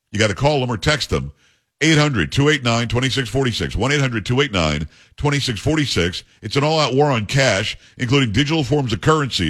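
upbeat pitchman reading the sponsor spot; punchy ad-read voice pushing the phone number; radio ad read. Acted. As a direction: sell it like a live radio ad. Host reads sponsor ad.

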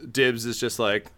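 ordinary delivery

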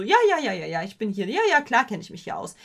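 breezy, self-assured act. Pretend. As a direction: play it like you belong here. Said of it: "so ganz selbstbewusst".

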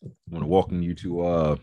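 talking through a mouthful of crackers; crunching crackers mid-sentence; mouth full. Real, not acted. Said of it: "pardon me, I'm eating crackers".

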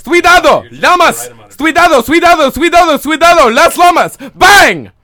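high, loud frantic warning; panicked warning shout. Retold or imitated. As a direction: yell it like a panicked villager. Acting out the Daily Mail comment.

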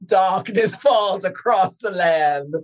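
slow, lightly voiced creepy narrator; a hint of spooky old man. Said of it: "an old man talking some creepy shit".

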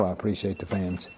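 mean every word of it, gently; quiet sincere thanks. Real, not acted. Host thanking the fans, softly sincere. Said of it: "More than you know".

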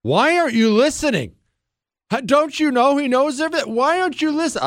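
high, exasperated mock lecture; mock the expert pleading with a deaf public; hammed-up high-pitched exasperation; mock frustrated scolding. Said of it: "You hear the frustration in his voice?".

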